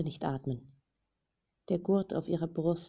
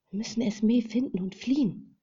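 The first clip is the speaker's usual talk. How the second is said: firm and decisive; 6 semitones higher, 4 dB louder than usual. A narrator's reading. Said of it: "bestimmte sie".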